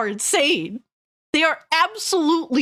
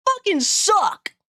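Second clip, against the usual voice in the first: trailer voice; 8 semitones higher, slower than usual. Pretend. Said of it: "my trailer voice was better than yours".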